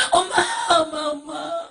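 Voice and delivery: high, wailing call for mother; acted tearful wail; crying child. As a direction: cry out like a frightened little child. Terrified children run crying to mother.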